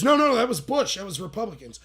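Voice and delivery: loud, high retort that settles down; mock protesting. Girl argues back about the war, mock protesting. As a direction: imitate an indignant objection.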